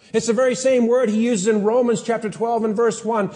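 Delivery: ordinary talk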